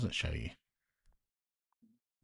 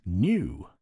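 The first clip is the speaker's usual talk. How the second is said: slow, louder, ironic sales pitch; mock announcement; 7 dB louder, slower than usual. Reading the old store's banner aloud as a mock advert. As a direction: read the banner like a grand advert, slowly. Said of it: "it says".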